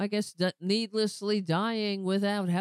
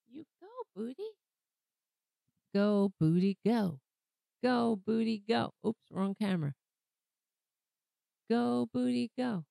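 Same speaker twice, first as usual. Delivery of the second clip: sing-song pet cheer; cheering the cat on; 3 semitones higher than usual. Real, not acted. Owner playfully cheers on his cat. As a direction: chant it to the cat like a tiny cheerleader.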